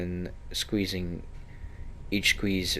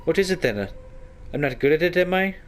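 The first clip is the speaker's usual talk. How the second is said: much higher and louder, embarrassed and insecure; flustered squeak; 10 semitones higher, 4 dB louder than usual. Acted. Anna fearing she kissed badly, high flustered outburst. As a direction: blurt it in a rising panic.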